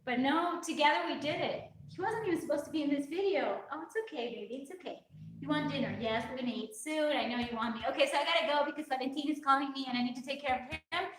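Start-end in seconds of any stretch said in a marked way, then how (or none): 3.7-7.5 soft, hushed reassurance to a pet; calm the fussing dog, much softer; soothing the dog. Real, not acted. Owner hushing her dog who wants dinner, soft and soothing.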